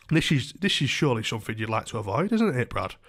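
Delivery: mock condescending landlord; patronising. Landlord warning his tenant over eviction, mildly patronising. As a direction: talk down to him, lightly imitated. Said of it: "patronise me or scare me".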